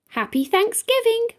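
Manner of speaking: high, quick bunny voice. A narrator's reading. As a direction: hop into a quick bunny greeting. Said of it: "welcomed Rabbit with a hop".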